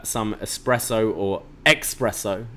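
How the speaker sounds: "espresso" said again with an X, ex-presso; mispronounced espresso. Retold or imitated. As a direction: contrast the right espresso with a wrong "ex-presso". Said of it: "as Stacks keeps saying".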